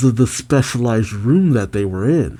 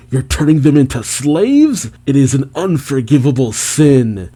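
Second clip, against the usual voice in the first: acted anger, moderately raised; pissed off; 2 semitones higher than usual. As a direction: act out righteous indignation. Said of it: "And Kuma gets pissed".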